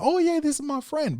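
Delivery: mock child-directed voice; talking to a child. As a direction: pitch way up like introducing a friend to a toddler. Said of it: "if you're speaking to a child".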